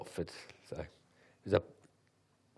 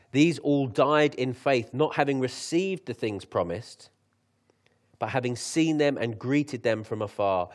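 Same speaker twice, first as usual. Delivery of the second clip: scripture reading; 4 dB louder than usual. Acted. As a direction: read scripture with weight.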